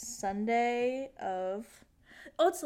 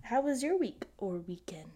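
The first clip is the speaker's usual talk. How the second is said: whispering. Real, not acted. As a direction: ask it in a whisper. Asks back still whispering.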